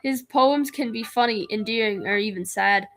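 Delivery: put-on British accent that comes out Australian; lightly put-on British, sliding into Australian; attempted British accent. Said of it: "I was trying to do a British one".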